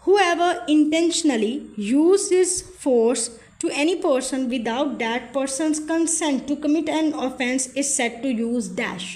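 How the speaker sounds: each word of the legal statement read out very slowly; slow dictation read. Shown as a demonstration. Tutor reading an exam question to students, slow dictation.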